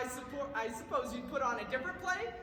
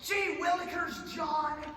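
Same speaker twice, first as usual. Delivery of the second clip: slow, louder hammed-up cry; mock outraged shout; 3 semitones higher, 5 dB louder, much slower than usual. Salesman yelling at John, mock outraged shout. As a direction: shout the tame curse like a real oath.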